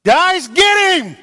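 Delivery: high, slow mock battle cry; a hammed-up call to charge; rallying shout. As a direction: sic the whole army on him. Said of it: "I've always just thought".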